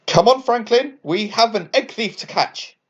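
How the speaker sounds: rally him, keen for the chase; bright excited call to action; excitedly. A narrator's reading. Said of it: "Dot said excitedly".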